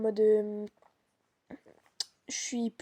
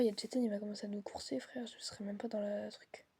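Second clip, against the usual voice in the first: scared horror game streamer; 9 dB quieter than usual. Real, not acted. Fearing being chased.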